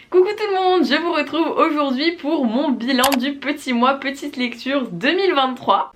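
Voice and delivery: high, loud youtuber greeting; bright video intro. Acted. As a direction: greet viewers with full energy.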